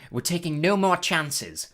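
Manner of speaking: high, slow, firm refusal; severe. A narrator's reading. Madam Pomfrey bars visitors at the door, severely. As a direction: turn them away sternly. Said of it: "told them severely".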